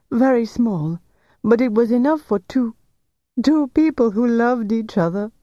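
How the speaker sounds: high, upset pleading; clinging to her love; tearful insistence. Acted. Jilted lover defends love.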